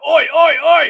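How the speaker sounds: high, loud chant shout; retold crowd yell. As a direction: imitate distant guys yelling back. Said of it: "some guys over there yelled out".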